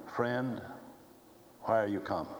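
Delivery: a soft, mild rebuke to a friend; gentle rebuke. Retold or imitated. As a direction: chide him gently, like a sad friend. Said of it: "this need of a gentle rebuke".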